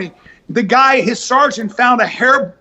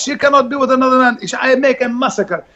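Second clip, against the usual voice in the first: macho Lebanese boast. Retold or imitated. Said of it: "You know those guys".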